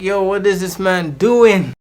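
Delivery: acted-out exasperated "what is he doing"; retold disbelief. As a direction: stretch it out in mock bewilderment. Retold exasperated reaction to being followed.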